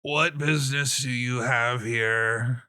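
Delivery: put-on slow, drawn-out old giant; slow and formal old man; withered old giant. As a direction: question them ponderously, like an ancient official. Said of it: "and he says".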